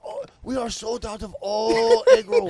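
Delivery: mock Asian accent. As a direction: ham up a Chinese restaurant accent, loud and high. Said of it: "racist impressions".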